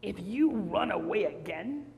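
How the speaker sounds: slow, spaced-out warning; deliberate big bad wolf menace; menacing wolf threat. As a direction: drop away ominously word by word.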